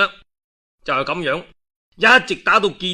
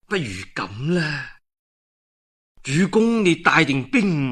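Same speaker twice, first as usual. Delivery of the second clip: scheming adviser; 3 semitones lower, 3 dB quieter than usual. Acted. Adviser Guo Tu proposing the ambush, low and scheming. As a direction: hush it like a secret plot.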